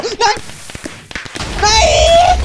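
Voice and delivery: high-pitched loud wail of defeat; screamed no. Pretend. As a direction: scream a long, dramatic game-over no. Potato explodes on player.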